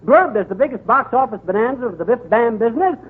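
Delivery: puffed-up bragging announcer style; grand boastful spiel. Acted. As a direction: brag it like a carnival barker. Alliterative boastful ringside spiel.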